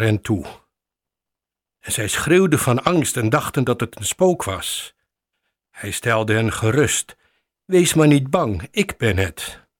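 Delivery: measured, solemn Bible reading; scripture reading. Acted. Pastor reads Matthew to the congregation, solemn reading.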